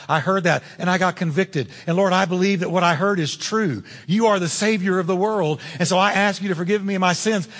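humble sinner's prayer. Shown as a demonstration. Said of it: "you have never said".

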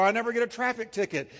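fast, self-satisfied boast; mock excuse. Preacher mocking a smug excuse to God, fast. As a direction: brag quickly and smugly. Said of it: "You can say to him".

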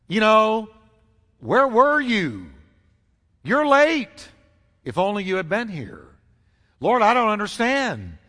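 grieving sister's mild mock reproach; pained pathos. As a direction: scold him through your grief, lightly acted. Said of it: "all kinds of pain and pathos in her voice".

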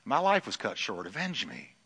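soft, fading plea for vengeance; blood's plea. Retold or imitated. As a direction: whisper the blood's cry from the ground. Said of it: "It says".

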